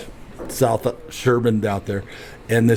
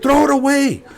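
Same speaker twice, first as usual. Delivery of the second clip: much higher, louder command; mock stern order; 13 semitones higher, 4 dB louder than usual. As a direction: bark the order up high. Retold order to his brother.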